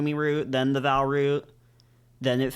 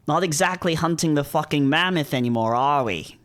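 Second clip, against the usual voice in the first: put-on British accent; 2 semitones lower than usual. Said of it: "same British accent I was doing".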